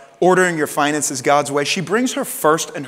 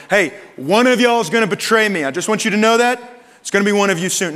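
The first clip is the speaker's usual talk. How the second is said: loud, raised, addressed to the whole room; announced to the group; 4 semitones higher, 4 dB louder than usual. Retold or imitated. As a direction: declare it across the table to everyone. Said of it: "speaking this over the whole group".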